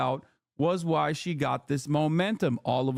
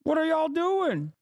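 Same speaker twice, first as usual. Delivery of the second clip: retold exasperation; 8 semitones higher than usual. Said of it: "I was like".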